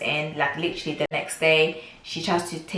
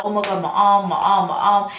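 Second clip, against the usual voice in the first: retold distress; 3 semitones higher, 5 dB louder than usual. Retelling her cries for help in pain.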